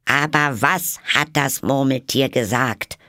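high, insistent question; questioning juror. Acted.

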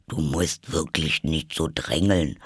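a hint of a sleepy creature voice; lightly put-on animal character voice; lightly voiced Dormouse. Narrator plays Dormouse.

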